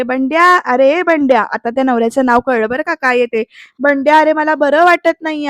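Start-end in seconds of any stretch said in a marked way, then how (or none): 0.0-1.4 slow, drawn-out call for her son. Acted. Mother-in-law summoning her son, calling out. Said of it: "नानी म्हणजे सासू इथे हाका मारते". 3.8-5.5 half-hearted acted holler; mild complaining cry. Unwell mother calling to her son, mild cry. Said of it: "असं त्या ओरडतात".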